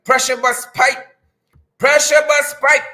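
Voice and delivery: lightly voiced crab man, barely off his own voice; a hint of a silly crab man. Host doing a goofy crab man voice for viewers. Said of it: "In my crab man voice".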